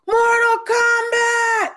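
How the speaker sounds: high, slow drawn-out yell; hammed-up Mortal Kombat shout; mock battle cry. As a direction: belt it like a game announcer. Mother kicks door in yelling.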